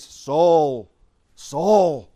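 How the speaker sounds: lightly acted heavenly summons. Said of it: "the voice from heaven says".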